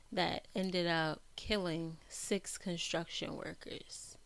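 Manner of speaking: somber whisper. Real, not acted. Somber news detail.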